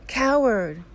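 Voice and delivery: mountain's loud, high shout back; echoed scream. A narrator's reading. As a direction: throw the shouted word back like an echo. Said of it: "He receives the answer".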